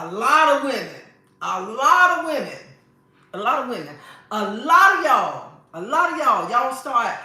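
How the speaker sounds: standing up to preach it loud; emphatic preaching. Real, not acted. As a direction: call the women out, building up. Preaching at the women, rising up.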